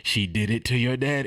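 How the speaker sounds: normal talking voice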